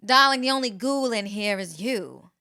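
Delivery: slow, lightly affected transatlantic accent; hint of Southern-tinged transatlantic accent. Shown as a demonstration. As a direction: draw the line out in mock transatlantic. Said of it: "how did your transatlantic accent go".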